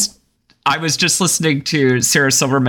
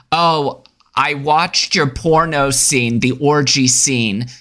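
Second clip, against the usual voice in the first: Jewish grandmother; 3 semitones higher, slower than usual. Retold or imitated. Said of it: "the response is".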